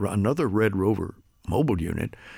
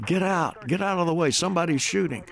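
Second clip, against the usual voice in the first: higher-pitched imitation of panicked bystanders' warnings; retold urgent shouting; 6 semitones higher than usual. Broadcaster recalling people shouting as somebody's shooting, imitated urgent cries. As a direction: call out warnings, urgent but not truly shouting. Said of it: "People were screaming and shouting".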